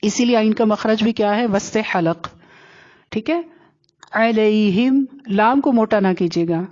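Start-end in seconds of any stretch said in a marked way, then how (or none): 4.1-5.0 علیہم opening with ع from mid-throat; throaty ain. Shown as a demonstration. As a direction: squeeze the first sound of علیہم from the throat. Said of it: "عین حلق کے وسط میں سے". (علیہم کا عین حلق سے)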